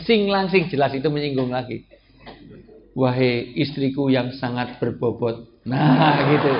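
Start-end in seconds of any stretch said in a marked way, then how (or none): 3.0-5.6 mock-poetic address.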